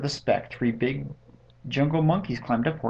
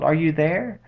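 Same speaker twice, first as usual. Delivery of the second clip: higher searching call; 4 semitones higher, 4 dB louder than usual. A narrator's reading. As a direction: call out hoping for an answer. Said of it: "and called".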